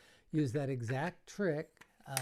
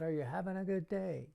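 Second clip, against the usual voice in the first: put-on host calling out the question again to a crowd of kids; 5 semitones higher than usual. Shown as a demonstration. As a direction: coax the crowd to answer back. Repeating question louder to crowd.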